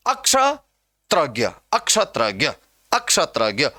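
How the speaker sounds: recited अक्षत्रज्ञ starting with a wrong a; extra initial a. Shown as a demonstration. Teacher imitates the alphabet misreading, added a in अक्षत्रज्ञ. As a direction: chant अक्षत्रज्ञ as one word, a before ksha. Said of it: "अक्ष भी नहीं है".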